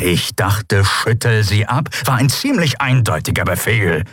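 sarcastic repeat of his own order, rising on ab; growled sarcasm. Acted. Chasu growls his order back at the failing pilot, sarcastic. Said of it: "knurrte Chasu".

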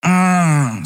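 high, groggy wordless hum; a half-awake murmur of a sound. Acted. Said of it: "oder etwas ähnlich Unverständliches".

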